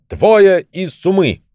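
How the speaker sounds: high, slow, commanding call; self-important shout. A narrator's reading. Old man showing off his magic bag to wife, self-important shout. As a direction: call it out high, drawing out the words. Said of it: "приважно расселся и крикнул".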